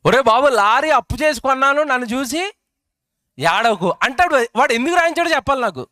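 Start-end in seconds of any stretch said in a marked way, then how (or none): 0.1-3.9 lightly acted plea from a worried lorry owner; pleading lorry owner. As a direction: say it like a nervous owner begging people not to envy him. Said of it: "ఏం చేసుకున్నాడట?". (ఒరే బాబు, lorry అప్పు చేసి కొన్నాను, నన్ను చూసి ఏడవకు - భయపడే lorry యజమాని వేడుకోలు, తేలికగా)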